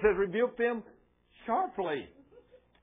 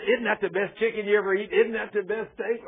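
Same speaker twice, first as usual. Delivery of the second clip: higher-pitched mock gushing over food; enthusiastic eater; 4 semitones higher, 4 dB louder than usual. Instigator across the table raving about dinner, imitated enthusiastic gushing. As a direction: imitate an eager egger-on at the table.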